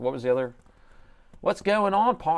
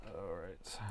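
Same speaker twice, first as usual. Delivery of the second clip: whisper; 6 semitones lower, 20 dB quieter than usual. Real, not acted. Quiet aside while working.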